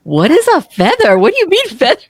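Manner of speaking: high-pitched mock bewilderment; baffled friends. Friends puzzled by the mother's word, baffled and high. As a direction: imitate friends in squeaky, incredulous confusion.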